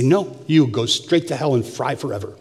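mock harsh joke. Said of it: "No, I didn't say that".

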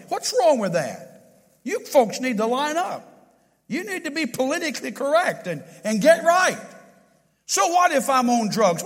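hammed-up taunting challenger, climbing in pitch; mocking the world. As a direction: mimic a defiant voice of the world. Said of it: "that's what the world is asking us today".

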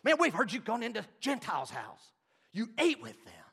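loud, high accusing challenge; hammed-up scolding crowd; accusing Jews. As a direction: confront Peter with indignant disbelief. Jews confronting Peter, accusing.

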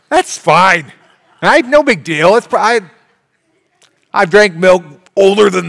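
loud, high, brushing it off with a laugh; dismissive milk drinker. Retold or imitated. Milk drinker to the congregation, loud dismissive laughing. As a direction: laugh off the date, no big deal. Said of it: "and be like".

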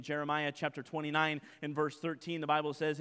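normal talking voice

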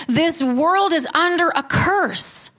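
slow, with a catch of crying; tearful. Real, not acted. Pastor grieving the curse on the world, tearful and slow. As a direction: let the grief break through. Emotional sermon about death.

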